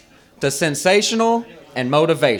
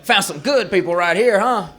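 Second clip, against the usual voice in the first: Uncle Worm; 4 semitones higher than usual. Acted. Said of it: "he's gonna be like".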